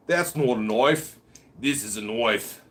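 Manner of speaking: put-on light Australian accent, slowed; a touch of Crocodile Dundee Australian; Paul Hogan Australian accent. Streamer quoting the knife line in light Australian accent. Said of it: "That was a good Paul Hogan accent".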